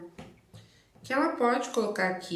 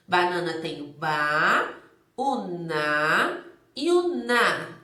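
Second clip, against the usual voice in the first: very slow, each syllable "ba", "na", "na" set apart and louder; 4 semitones lower, 5 dB louder, much slower than usual. Shown as a demonstration. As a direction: break "banana" into its syllables for a child. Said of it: "teacher spells out syllables". (sílaba por sílaba, bem devagar: "ba", "na", "na")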